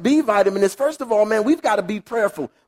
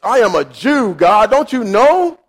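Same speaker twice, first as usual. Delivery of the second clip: slow, louder, indignant pious protest; 5 dB louder, slower than usual. Retold or imitated. Peter refusing God's offer of pork, piously indignant. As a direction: insist on your religious rules, affronted. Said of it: "in his religious piety".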